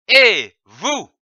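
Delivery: hailing someone loudly; loud Et vous, hailing someone; calling out. Shown as a demonstration. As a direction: call out to a person across the room. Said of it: "qui permet d'appeler ou d'interpeller quelqu'un".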